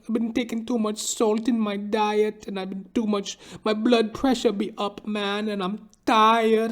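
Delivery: put-on high, slow whiny old man; whining barber, breaking into a whimper at the end; complaining barber. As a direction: moan it like a tired hypochondriac. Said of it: "He'd be like".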